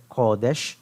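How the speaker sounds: "kodesh" stressed on the first syllable, KO-desh; accent demo. Shown as a demonstration. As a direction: model "kodesh" with the weight on KO for students. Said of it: "Note the accent".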